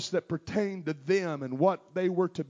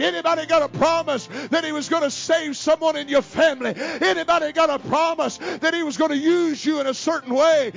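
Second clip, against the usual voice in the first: getting louder; 8 semitones higher, 6 dB louder than usual. Real, not acted. Preacher building to climax.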